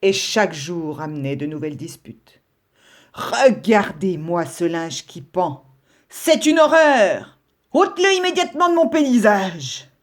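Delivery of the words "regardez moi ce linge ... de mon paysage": indignant scolding. Acted. Brown rabbit scolds about laundry.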